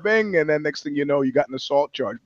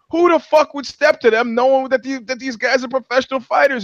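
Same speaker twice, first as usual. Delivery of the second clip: higher, incredulous outburst; baffled disbelief; 9 semitones higher than usual. Retold or imitated. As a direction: make it sound absurd to you. Retold own baffled question.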